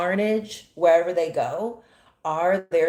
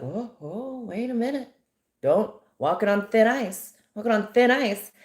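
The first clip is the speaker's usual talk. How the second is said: mock-alarmed warning, higher pitched; 5 semitones higher than usual. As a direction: imitate someone cautioning a critic to back off. Voicing Zionists' warning to critics.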